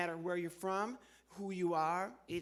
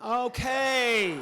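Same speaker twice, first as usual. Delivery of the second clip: loud exasperated okay; 6 semitones higher, 11 dB louder than usual. Real, not acted. Reacting to puppet joke.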